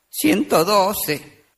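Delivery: slow, lightly voiced weepy old man; mock-tearful elderly voice. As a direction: draw it out like a sobbing grandpa. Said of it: "Otro viejito estaba llorando".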